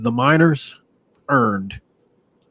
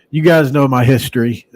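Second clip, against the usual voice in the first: son doing his dad's voice, a bit louder; lightly voiced dad, half-joking; imitating his dad; 5 dB louder than usual. Son imitating his dad to stream viewers, lightly voiced. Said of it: "My dad would talk like this".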